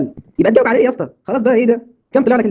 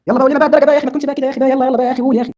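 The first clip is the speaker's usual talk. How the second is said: whiny pleading; 7 semitones higher than usual. Acted. Friend begging Ziad to tell the grade, whiny pleading. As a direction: nag him to spill the grade.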